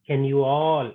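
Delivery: "you all" picked out in the question; stress on YOU ALL. Shown as a demonstration. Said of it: "There the emphasis is on karta".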